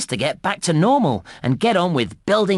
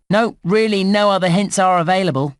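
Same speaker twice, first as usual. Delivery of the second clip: higher-pitched insistence; playfully insistent; 4 semitones higher than usual. Acted. Game guide denying the player more hints, playfully insistent.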